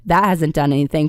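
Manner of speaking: hoarse, raspy sick voice; rough smoker's rasp from a cold. Real, not acted. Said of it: "I sound like a chain smoker right now".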